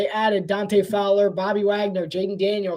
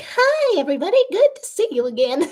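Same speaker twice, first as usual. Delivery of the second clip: very high-pitched, swooping, sing-song voice; 10 semitones higher than usual. Showing how their voice sounds in real life: much higher-pitched voice. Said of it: "my voice sounds much higher pitched".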